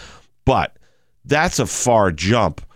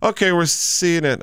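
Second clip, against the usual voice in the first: radio voice; 8 semitones higher than usual. Retold or imitated. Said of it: "he goes".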